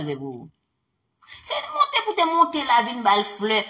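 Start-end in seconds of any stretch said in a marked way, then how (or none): 1.4-3.6 high, loud heated demand; heated shout. Real, not acted. Telling Patrice what he should have done, heated shout.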